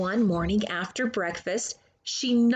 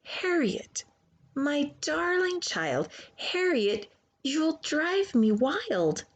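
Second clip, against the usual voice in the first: mother's strained sweetness; 5 semitones higher than usual. Acted. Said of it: "so instead she said".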